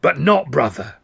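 loud, emphatic fortune-teller voice; loud cry with heavy stresses; crone's shriek. A narrator's reading. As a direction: proclaim it like a riddling old seer. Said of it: "she shrieks out".

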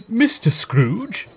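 high, slow, questioning character voice; astonished gentleman. A narrator's reading. Old gentleman recognising Scrooge, slowly incredulous. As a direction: draw the name out in disbelief.

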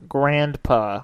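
"Grandpa" drawn out as GRAND-puh with the d sounded; pointed pronunciation. Shown as a demonstration. Co-host correcting how his friend says grandpa, pointed pronunciation. Echoes the word pointedly to compare.

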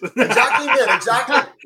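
high, laughing "exactly"; laughing agreement. Real, not acted. Laughing along with the lads at the joke. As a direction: laugh through the words as you agree.

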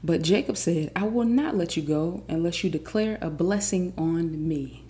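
loud, deliberate Bible reading with punched key words; emphatic scripture reading. Acted. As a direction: read the passage aloud like a dramatic story. Reads the Bible passage aloud.

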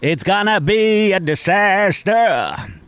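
high, slow, hammed-up English accent; mock English. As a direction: drag it out in a mock-dramatic English voice. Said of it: "høre meg gjøre tjue minutter med engelsk materiale".

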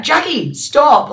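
high, loud retold shout; mock yell of exasperated teammates; imitated yelling. Teammates telling off the cheeky runner ahead, mock yelling. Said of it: "everyone's yelling out".

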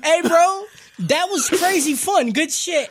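loud imitation of casual praise; mock hearty praise. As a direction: call it out like a hyped-up bro. Loud mocking voicing of Sukuna.

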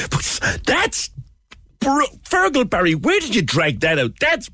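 high, squeaky, laughing disbelief; appalled laughter. Real, not acted. Host to Fergal Barry after awful clip, laughing in dismay. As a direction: squeeze it out through helpless laughter.

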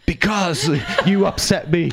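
high, slow, laughing through a pretend scene line; trying to play along in the improv but cracking up; mock upset, laughing. Answering the acting coach's improv, laughing through it. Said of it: "I'm like".

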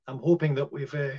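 throat catching mid-sentence; choking. Real, not acted. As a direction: talk through a tickle in the throat. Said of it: "sorry, I'm choking".

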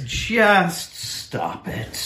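very slow, deliberate stop it; firm scold. Real, not acted. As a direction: scold like a weary parent. Scolding the plaintiffs.

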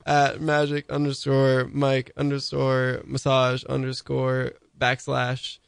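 reading back. Acted. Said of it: "Just read it back to me".

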